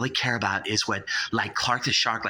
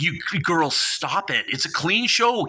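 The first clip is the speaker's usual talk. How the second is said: much higher, flustered protest; flustered scolding; 6 semitones higher than usual. Acted. Shark scolding the girls to keep it clean, high flustered. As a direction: squeak out a scandalised rebuke.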